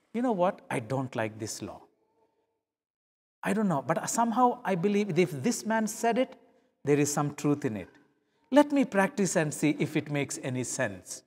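soft, calm, open-minded musing; thoughtful. Acted. Second miler quietly deciding to try Jesus' teaching, soft and calm. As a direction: reason it through quietly.

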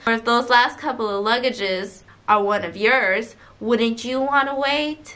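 put-on Atlanta accent. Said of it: "In, like, an Atlanta accent".

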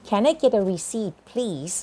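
"receipt" said ri-SEET with a silent p; careful pronunciation. Shown as a demonstration. Teacher modelling "receipt" for students, slowly and clearly. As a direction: stress the second syllable of "receipt", no p sound. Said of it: "อ่านว่า receipt".

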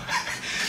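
quiet, voiceless laugh; soft chuckle. Real, not acted. Storyteller amused by dad's threat, soft chuckle. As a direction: let out a small wheeze of laughter.

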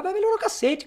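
sharp, high burst of real irritation; angry retort. Real, not acted. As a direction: spit it back in disgust, pitch jumping way up. Angry retort to false hope. (retruque irritado, voz bem mais aguda)

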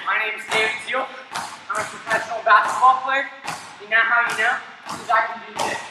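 quick, woozy, slurred delivery; dizzy. Real, not acted. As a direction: rush through it while dizzy. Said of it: "I'm so dizzy".

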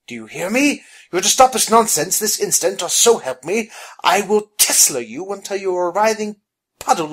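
loud, high, commanding rebuke; shouted scolding. Acted. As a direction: scold at full voice, easing slightly toward the end. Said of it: "Phineas shouted".

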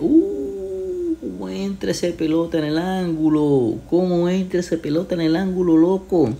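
very high, stretched goal cry; breakneck goal commentary. Real, not acted. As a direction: scream the golazo in awe. Goal celebration by streamer.

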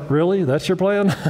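lightly sarcastic questioning; a touch of mock disbelief. Imagined God doubting someone's plan, mildly sarcastic. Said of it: "being sarcastic, going".

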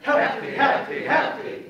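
loud crowd chant, all together; the whole room shouts it back; many voices in unison. Shown as a demonstration. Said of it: "One more time".

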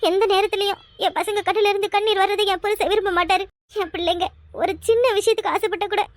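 speaking through tears, holding back sobs; crying. Acted. Wife tells the husband who forgot them to leave, crying. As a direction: let the tears break into the words.

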